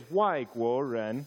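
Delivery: 外国人 said in Mandarin tones, wai falling; Chinese tones. Shown as a demonstration. Pastor teaching the church the Chinese word, 外国人 in Mandarin tones. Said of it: "the way you say it is".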